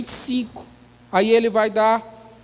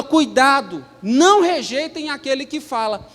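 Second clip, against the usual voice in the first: warning; 2 semitones higher than usual. Acted. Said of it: "Ele fala".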